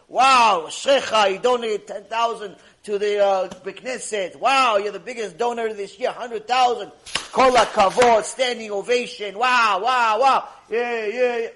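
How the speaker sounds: hammed-up gushing praise for a big donor; mock praise. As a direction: cheer the donor in mock delight.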